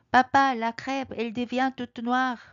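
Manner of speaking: put-on high, slow alarmed child; little bear alarmed about the crepe; cub crying out. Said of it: "아기 곰이 갑자기 외칩니다".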